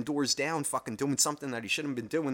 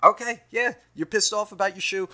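raised, loud brush-off; dismissive dog; 8 semitones higher, 6 dB louder than usual. Retold or imitated. Dog brushing off owner angry about shoe, dismissive. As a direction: wave away the complaint in a pitched-up voice. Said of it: "It just the fucking looks like".

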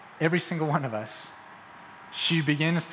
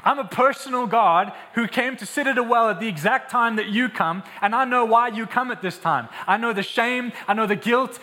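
higher-pitched, insistent assurance that they are known; impassioned Jesus; 3 semitones higher than usual. Acted. Preacher as Jesus reassuring the woman at the well, impassioned. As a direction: press each understanding statement home with urgency. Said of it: "He says, Hey, I know you".

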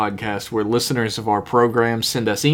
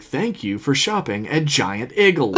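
robotic voice. Retold or imitated. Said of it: "robotic voice would be like".

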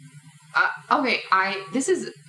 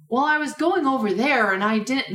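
put-on over-enunciated American accent, pitched higher; overdone American accent; 5 semitones higher than usual. Imitating British people doing American accents, over-enunciated. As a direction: exaggerate every word in a mock American accent. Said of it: "when British people do American accents".

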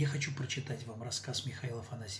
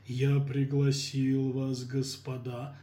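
raspy whisper; 3 dB louder, much slower than usual. Acted. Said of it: "суфлёр из будки сиплым шёпотом".

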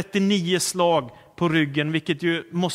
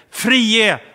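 slow, louder called-out demand; drawn-out crowd cry; crowd calling out; 3 semitones higher, 5 dB louder, slower than usual. Retold or imitated. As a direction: call it out as the crowd demanding release. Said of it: "ropar folket".

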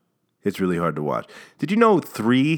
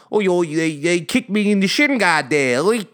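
higher hammed-up English player complaining; mock English whine; 10 semitones higher than usual. England player whines to the ref about his shin, mock English accent. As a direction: moan like a diver with arms up, English accent.

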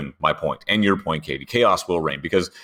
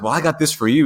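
9 semitones higher, 4 dB louder, faster than usual. Retold or imitated. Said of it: "Ryan is completely playing his character".

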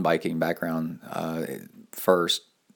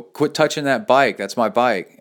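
higher, louder mock yell; retold yell; 4 semitones higher, 5 dB louder than usual. Warning someone moving his bike, retold yell. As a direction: call out a sharp warning, retold. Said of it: "I yelled at her".

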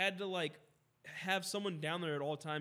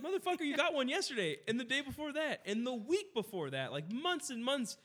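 higher, laughing mock outrage that slows toward the end; retelling exasperation at the customer, slowing down; exasperated; 6 semitones higher than usual. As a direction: vent in disbelief, half laughing. Retold exasperated reply.

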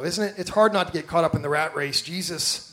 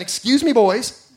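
put-on a bright, louder and higher "excuse me, boys"; sweetly elbowing past the men, pitched up; Mary pushing past; 4 semitones higher, 5 dB louder, slower than usual.

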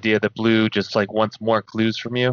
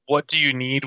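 lightly imitated game-unit line with odd inflection; video game voice; 3 semitones higher than usual. Friend suggesting a PlayStation game voice, lightly mimicked weird inflection. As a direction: mimic a generic game response. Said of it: "really weird inflection that could be generalized".

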